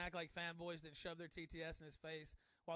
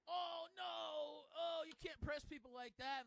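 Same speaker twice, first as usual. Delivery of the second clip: higher, whiny imitation of a scold; mildly raised mocking voice; 8 semitones higher, 5 dB louder, much slower than usual. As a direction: mimic a prissy scold, higher. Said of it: "and he's like".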